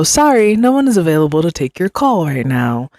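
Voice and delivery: lightly voiced phone recording; automated voice. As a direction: imitate a polite recorded message. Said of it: "automated voice".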